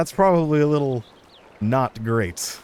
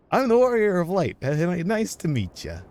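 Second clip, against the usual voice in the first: awkward introduction; 7 semitones higher than usual. Acted. Voices own game character's introduction.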